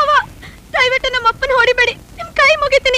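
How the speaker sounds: desperate pleading. Acted. Daughter begs uncle not to beat her father, pleading urgently. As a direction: beg him to stop.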